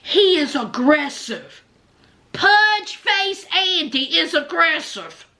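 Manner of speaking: slow, drawn-out mock victim complaint; mock fearful. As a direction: stretch it out, putting on fear to make fun of her. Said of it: "putting on this whole".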